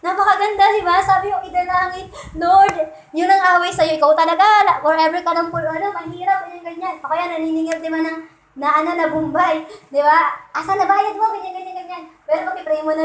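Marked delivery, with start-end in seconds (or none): 2.4-7.0 hammed-up nagging prayer; mock whiny prayer. Praying aloud to God about a nagging creditor, mock loud whine. 10.6-11.3 high demanding "Asan na bayad mo?"; lightly voiced pushy collector; mock debt collector. A collector demanding payment from the speaker, lightly mocked and high.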